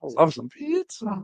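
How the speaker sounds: high, slow put-on girly voice; man doing a woman's voice. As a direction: coo it slowly like a girl. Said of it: "Just be with my girl voice".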